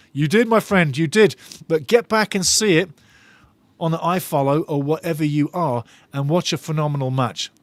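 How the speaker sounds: normal talking voice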